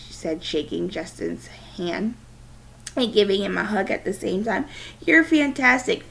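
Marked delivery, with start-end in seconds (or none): 5.0-6.0 high, loud enthusiastic praise; excited praise. Acted. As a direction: cheer him on proudly. Dad praising Justin.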